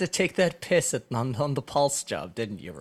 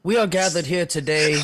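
solemn funeral opener, a bit louder; faltering tender eulogy; 5 dB louder than usual. Pretend. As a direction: intone it like a pastor at a funeral. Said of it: "Do you wanna try that again?".

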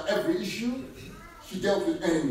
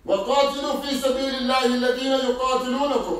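quick Quran recitation; 5 semitones higher, 6 dB louder, much faster than usual. Acted.

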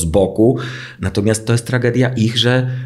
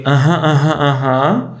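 absent-minded husband; 5 semitones higher, slower than usual. Retold or imitated. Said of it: "I on robi".

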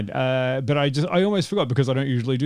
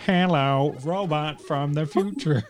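mock robot greeting; slower than usual. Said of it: "This is what it's like".

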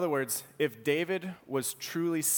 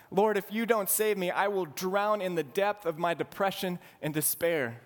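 desperate plea; 5 semitones higher than usual. Retold or imitated. Preacher voicing David begging God to save him, building desperation. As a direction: beg harder each time, rising to a cry. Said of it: "David is saying".

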